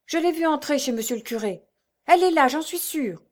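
high-pitched woman informant; eager bystander's voice, pitched well up; another villager. A narrator's reading. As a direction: insist excitedly, rising in force. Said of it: "Une autre ajoutait".

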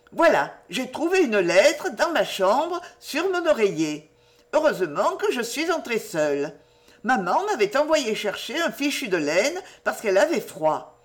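lightly voiced girl telling a secret; eager young Jenny. Jenny telling Lucienne about the letter on her pillow, eager. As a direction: share the discovery with girlish delight.

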